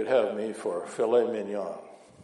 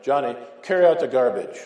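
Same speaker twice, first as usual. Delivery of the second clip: firm mom; 7 dB louder than usual. Retold or imitated. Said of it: "mom again".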